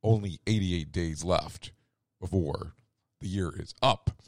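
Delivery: ordinary talk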